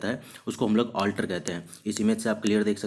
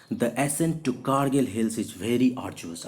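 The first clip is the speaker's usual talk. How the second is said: very slow, clear reading; teacher dictating example; slow dictation; much slower than usual. Shown as a demonstration. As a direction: read it word by word. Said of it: "example sentence".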